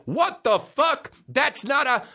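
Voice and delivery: hammed-up shocked star; mock outraged rapper. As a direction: protest like a spoiled rapper. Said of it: "he's like".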